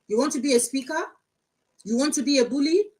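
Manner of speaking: high, loud mocking of his pompous titles; mocking imitation. Mocking a man who calls himself Grandpa Blogs, loud and high.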